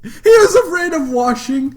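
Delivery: loud, high-pitched disbelieving question; incredulous. Real, not acted. Listener hears character fears washing, real incredulous outburst. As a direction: repeat it back in loud disbelief.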